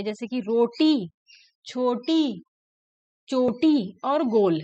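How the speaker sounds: each word drawn out slowly, ending sound stressed; slow, stressing the ending sound. Shown as a demonstration. Teacher to pupils, slow words that lean on the last sound. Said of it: "अंत होने वाली ध्वनि पे ध्यान देंगे".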